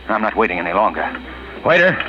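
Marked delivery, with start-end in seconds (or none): 1.6-2.0 calling out. Acted. Calling waiter across restaurant.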